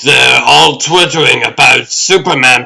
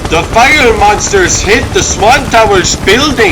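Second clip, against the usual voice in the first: higher, urgent eyewitness cry; alarmed outburst; 5 semitones higher than usual. Acted. Helicopter pilot to the newsroom, alarmed shout. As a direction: blurt it out as the tower gets hit. Pilot sees monster attack.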